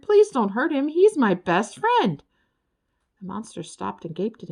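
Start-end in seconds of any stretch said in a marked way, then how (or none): 0.0-2.2 high, loud pleading, slowing at the end; crying out. A narrator's reading. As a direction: plead for your best friend. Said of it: "cried Ferd".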